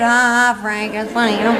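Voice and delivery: lightly voiced groggy mother. Half-sedated mother murmuring to her husband Frank, lightly voiced. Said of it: "half sedated".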